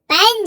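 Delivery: पेन with a strong puff of air on the P; aspirated P opening पेन. Shown as a demonstration. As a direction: say पेन, breath bursting out after the P. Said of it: "बहुत ज्यादा तेजी से सांस बाहर आ रही है".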